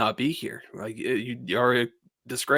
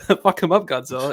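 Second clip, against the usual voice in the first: put-on excited cheering, louder; 3 semitones higher, 5 dB louder than usual. Retelling own reaction as the crowd cheered in the theater: retelling own excited cheering. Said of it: "everyone cheered in the imax".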